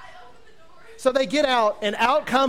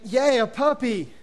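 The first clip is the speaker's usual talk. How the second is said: drawn-out, higher-pitched mock cheer; hammed-up little hooray; mock delight; 4 semitones higher, slower than usual. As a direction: cheer slowly with put-on glee. Mock cheer at an unwanted puppy.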